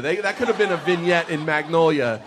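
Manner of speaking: usual speaking voice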